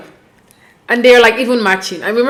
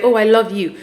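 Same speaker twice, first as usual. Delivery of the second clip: nurturing love you; 2 semitones lower than usual. Retold or imitated. Woman showing partner how to say "I love you", nurturing. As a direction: give "I love you" some mild tenderness. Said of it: "in a nurturing way".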